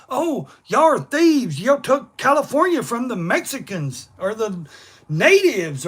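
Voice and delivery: mock high whiny voice, slowed; mocking whine. Mocking critics who call him a thief, whiny. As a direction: sneer it like a complainer.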